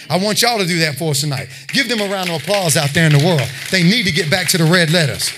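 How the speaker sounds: loud, rising preacher's call to the crowd; rousing call. Real, not acted. Preacher urging the congregation to cheer, loud and rousing. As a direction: lift the room, call for applause. Pastor rallying congregation to applaud.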